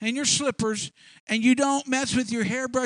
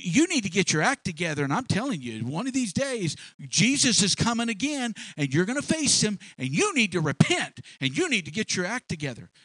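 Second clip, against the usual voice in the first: the rebuke pushed louder, hammering the repeated "you"; louder preachy rebuke. Retold or imitated. Christian lecturing a struggling person, louder mock rebuke. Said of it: "we interrupt them, and we say".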